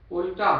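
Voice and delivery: उल्टा alone, loud and falling, then a halt; stop after उल्टा. Shown as a demonstration. Preacher re-reading the verse for a new meaning, full stop after उल्टा. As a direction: punch उल्टा and cut off as at a comma. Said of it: "comma लगाओ".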